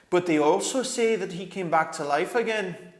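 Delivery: a badger snapping back; sharply. A narrator's reading. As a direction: cut in sharply like a gruff badger. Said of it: "said the Badger sharply".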